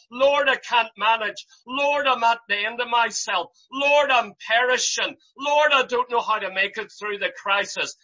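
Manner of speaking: heartfelt, half-shouted plea; desperate prayer. Acted. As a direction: plead like a man at the end of himself. Preacher voicing a desperate prayer.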